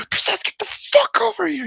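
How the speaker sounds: high, loud yell; shout down hallway. Retold or imitated. Student ordering his drunk friend back over, shouting. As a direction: holler to someone far down the hall. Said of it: "And I shout down the hallway".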